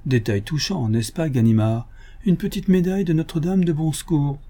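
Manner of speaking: lightly voiced gentleman thief, teasing; mock friendly, toying with him; sly Lupin. Lupin teases the inspector about the silk, lightly voiced.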